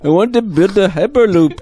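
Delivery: high, loud put-on Australian, laughing; bad Australian accent breaking into laughter; Elon Musk, Australian accent. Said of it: "let's hear him talk".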